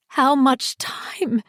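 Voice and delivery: slow, breathy, hoarse with anxiety; barely voiced, slow dread; hoarse whisper. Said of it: "her voice hoarse with anxiety".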